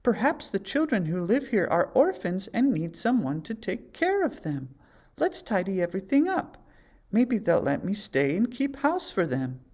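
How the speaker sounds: Snow White's voice. A narrator's reading. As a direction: plan kindly to help. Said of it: "said Snow White".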